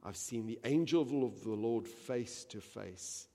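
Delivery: a loud, lifted cry of alarm. Acted. Gideon crying out to the Lord, loud and alarmed. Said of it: "he cried out".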